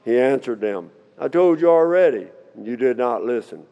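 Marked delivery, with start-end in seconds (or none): 1.2-3.6 mildly exasperated, higher-pitched retort; lightly acted arrogant challenge; a touch arrogant. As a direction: read it as a cheeky comeback to questioners. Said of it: "this guy's getting pretty arrogant with them".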